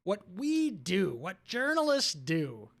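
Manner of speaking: slow, drawn-out tearful imitation; mockingly wounded, stretching each phrase slowly; mock near-tears. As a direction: mimic an overwrought journalist about to cry. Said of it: "sounds like he's about to cry".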